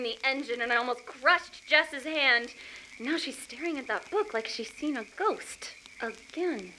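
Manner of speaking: hushed, low whisper. Acted. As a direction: whisper it behind her back. Kat whispering about Jess.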